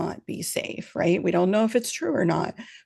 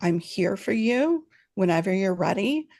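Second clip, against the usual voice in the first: calm reassuring voice. Shown as a demonstration. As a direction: let the child know you'll wait. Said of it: "we had just have to say".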